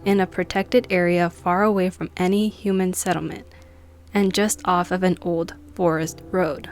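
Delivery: measured read-aloud with pauses between phrases; story narration. A narrator's reading. Vlogger reading a Bigfoot encounter article to viewers, measured narration.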